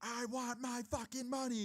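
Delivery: acted-out shrill scream, very high-pitched and drawn-out. Retelling a woman demanding money as he walked away, imitating a woman screaming. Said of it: "And she starts screaming".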